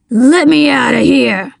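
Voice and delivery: trapped man's strained demand; mildly breathless, insistent villain voice; panting demand. A narrator's reading. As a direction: demand release with a touch of panting. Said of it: "he demanded, panting".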